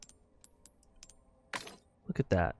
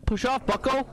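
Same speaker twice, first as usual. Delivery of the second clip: high taunting voice; 13 semitones higher than usual. Pretend.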